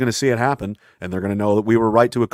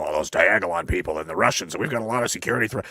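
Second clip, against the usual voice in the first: snide put-on politician voice; mocking the prime minister; 3 semitones lower, 5 dB quieter than usual. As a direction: parody a fretting official on TV. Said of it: "We made the prime minister".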